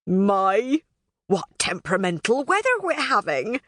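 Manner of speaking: lightly voiced, innocent mock remark; teasing Robin. Robin teasing Maleficent after the prank, lightly voiced mock innocence. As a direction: play innocent, a touch sly. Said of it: "Robin said".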